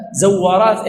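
زوارات opening on "zaw", short a after the z; fatha on the zay. Shown as a demonstration. Teacher citing the hadith's wording, زوارات said zawwaraat. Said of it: "أي بفتح ماذا؟".

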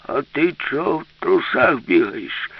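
put-on slow, cranky old man's demand; angry but not shouting. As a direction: scold crossly, drawing out the words. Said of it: "спитав дід неголосно, але сердито".

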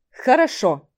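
серьёзно. Acted. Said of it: "серьёзно кивнул Рейвен".

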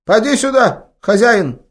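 put-on high, loud old woman calling; old grandma calling. A narrator's reading. Grandma calls grandson over, loud granny voice. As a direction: beckon the boy in a high village-granny voice. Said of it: "позвала она внука".

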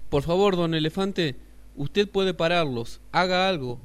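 cotorrita suplicante. Acted. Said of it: "pidió la cotorrita verde".

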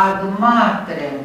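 Ad matrem slowly, ad unstressed, stress on MA; stress demo. Shown as a demonstration. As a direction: glue ad onto matrem. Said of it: "vom accentua". (accent pe ma, ad neaccentuat)

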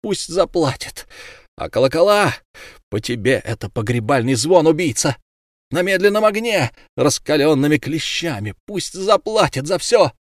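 grieving mother raging at her daughter's killer; furious cry. Acted. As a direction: spit out her demand for revenge. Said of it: "кричала Тория".

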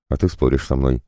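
ordinary delivery

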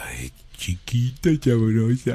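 a light slow seductive croon; sultry voice. Shown as a demonstration. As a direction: drop into a lazy sexy voice. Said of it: "A ver. voz sexy".

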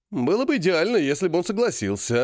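brightening with sudden hope; perking up. Acted. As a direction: lift the voice, suddenly eager. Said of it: "оживился Серый".

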